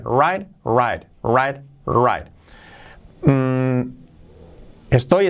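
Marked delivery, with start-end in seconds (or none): 0.0-2.3 WRITE as "rait", just like right; identical pronunciation. Shown as a demonstration. Teacher shows write and right sound alike, identical pronunciation. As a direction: repeat "write" evenly, each one falling. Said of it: "suenan exactamente igual".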